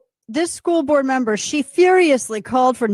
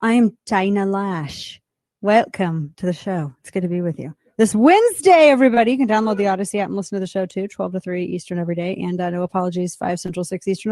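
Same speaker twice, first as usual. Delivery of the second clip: brisk show intro read; upbeat radio host intro; radio host open; 3 semitones lower than usual. Acted.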